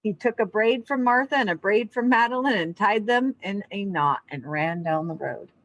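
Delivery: calm read-aloud storybook voice; story narration. A narrator's reading. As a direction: read it to a class of kids, unhurried. Reads picture book aloud.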